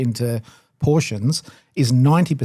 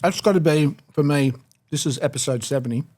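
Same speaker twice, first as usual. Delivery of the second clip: talking with a mouthful; mouth full. Real, not acted. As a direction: chew and talk at once. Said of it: "Sorry, I'm talking with my mouth full".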